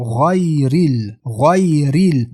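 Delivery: thick, full gh opening غیرل; heavy ghayn. Shown as a demonstration. Teacher drilling heavy ghayn in غیرل, thick and slow. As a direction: draw out غیرل with a dark gh. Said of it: "غین حرف غوص است".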